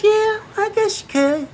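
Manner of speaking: put-on high, unsure old woman's voice; hesitant old lady. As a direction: grant it doubtfully like an old lady eyeing his clothes. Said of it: "She goes".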